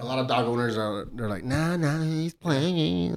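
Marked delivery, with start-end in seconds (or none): 1.4-3.1 higher, put-on dog owner brush-off; mock breezy dismissal. Dog owner excusing a jumping dog, mock-breezy dismissal. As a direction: wave off the worry in a raised mock voice.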